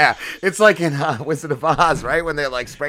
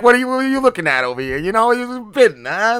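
mock Trump voice; 5 semitones higher than usual. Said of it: "You're gonna be like".

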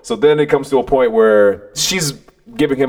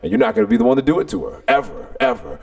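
retold barking. Telling the boy no girl deserves this, stern. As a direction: lecture him sternly, dropping onto the repeats. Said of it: "literally barking in his ear".

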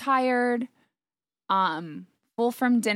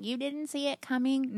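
imitating everyone's higher-pitched surprised question; retold disbelief; 5 semitones higher than usual. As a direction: echo their disbelief, pitched up. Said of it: "everyone's like".

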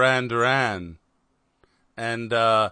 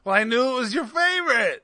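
high, fast, laughing to tears; 10 semitones higher, faster than usual. Real, not acted. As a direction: squeeze it out through laughter. Teasing about the gift.

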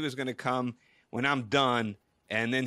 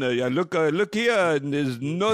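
louder, put-on voice of an apologetic clerk; hotel receptionist; 4 semitones higher, 5 dB louder than usual. Receptionist tells insistent caller there is no such guest, louder mock-apologetic. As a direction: play the hotel lady firmly finding nothing. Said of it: "And she goes".

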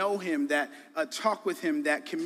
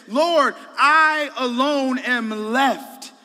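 lonely Elijah lament; 8 semitones higher, 10 dB louder, much slower than usual. Pretend. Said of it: "his one statement says".

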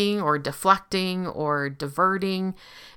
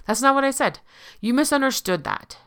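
insistent gaslighter; 4 semitones higher than usual. Retold or imitated. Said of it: "the other one that goes underneath".

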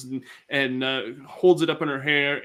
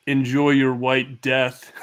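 goblin queen; 3 dB louder, slower than usual. Acted. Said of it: "she's like, laughs".

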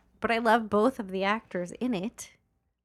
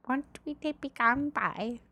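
movie quote; 3 semitones higher, 6 dB quieter than usual. Retold or imitated. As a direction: quote a film line in a softer, playful voice. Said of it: "What movie is that from?".

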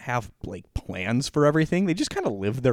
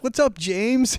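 higher, louder bro greeting, ignoring her; Carl brushing her off; 11 semitones higher, 4 dB louder, slower than usual. Retold or imitated. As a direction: toss it off like a buddy spotted across the room. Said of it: "And then he just says".

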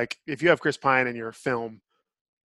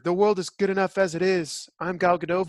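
higher-pitched mock actress voice; Gal Gadot; 3 semitones higher than usual. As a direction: put on a teasing imitation of the film's heroine. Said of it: "In her ... voice".

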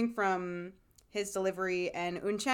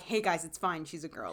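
casual reassurance; 4 semitones lower than usual. Retold or imitated. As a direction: imitate someone calmly clearing things up. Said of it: "he's not being like".

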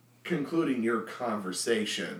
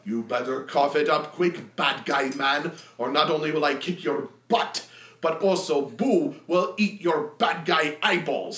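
louder brash warrior threat; threatening Minsk; 3 semitones higher, 4 dB louder than usual. Acted. Minsk threatens the deacon for information, loud bluster. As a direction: lean in and demand answers.

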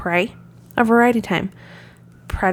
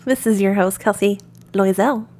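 polished cabin announcement voice; flight attendant. Acted. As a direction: airline announcer style. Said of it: "I'm talking like a flight attendant now".

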